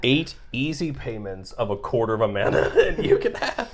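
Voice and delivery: hard sell ad. Pretend. Mock ad pitch continues.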